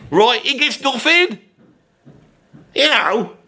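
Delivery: put-on grumpy Brummie bloke ranting in a Birmingham accent; a cantankerous Birmingham pub rant; Brummy Dave. Brummy Dave persona throughout.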